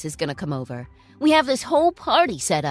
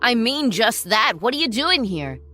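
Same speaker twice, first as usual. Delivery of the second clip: mocking; 5 dB louder than usual. Ex-husband voiced mocking his ex-wife.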